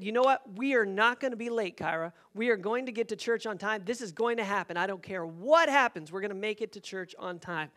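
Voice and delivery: emphatic, firm resolve; determined. Retold or imitated. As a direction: lay down the law a little. Vowing aloud to be punctual.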